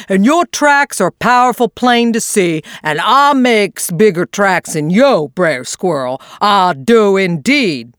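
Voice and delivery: lightly voiced drawling old possum; a hint of a doubtful old possum; friendly old possum, puzzled; Unc' Billy Possum.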